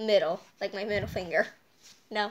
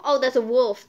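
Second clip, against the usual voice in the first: excited discovery; 9 dB louder than usual. Real, not acted. Spotting shapes in picture.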